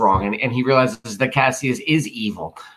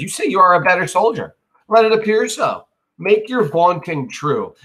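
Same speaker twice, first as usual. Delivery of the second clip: high, loud dare; taunting challenge; 7 semitones higher, 5 dB louder than usual. Acted. Brutus daring Cassius to prove it, loud taunt. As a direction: throw the boast back in his face.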